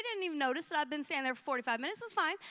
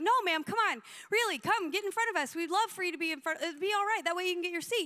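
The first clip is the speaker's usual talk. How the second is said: higher, eager coaxing; insistent invitation; 3 semitones higher than usual. Retold or imitated. Pastor offering angry lady a place in line, insistent coaxing. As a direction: urge her on, imitating a friendly pastor.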